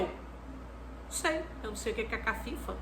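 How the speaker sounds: put-on a child's near-whispered answer, then a quick mumble; timid child. Child answering the teacher in a tiny unvoiced voice. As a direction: shrink away and barely voice it.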